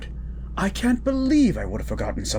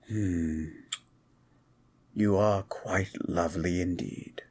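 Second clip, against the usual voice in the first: whisper; 3 semitones lower, 3 dB quieter than usual. Acted. Admiring his date by the fire.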